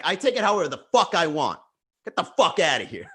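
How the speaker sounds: mildly acted dismissal; imitating her anger. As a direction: snap back as the irate woman, half laughing. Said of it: "that's how angry she was getting".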